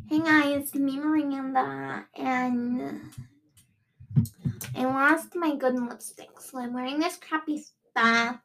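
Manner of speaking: a light take on Miranda's voice; lightly voiced Miranda, slow and dopey; Miranda impression. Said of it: "I wanna do my Miranda impression".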